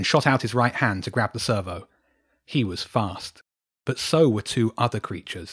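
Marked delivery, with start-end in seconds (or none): none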